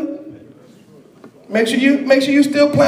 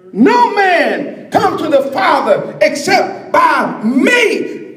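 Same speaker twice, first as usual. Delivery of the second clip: preaching voice of Jesus; 3 semitones higher, slower than usual. Acted.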